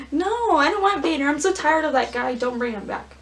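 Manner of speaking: exasperated. Real, not acted. Fan begging the writers, exasperated. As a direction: whine that you're sick of him. Fan ranting against Vader's return.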